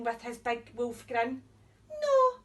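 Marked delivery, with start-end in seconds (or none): 2.0-2.4 high, loud cry of no; high shout. Acted. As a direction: squeal it out loud. Pig refuses wolf.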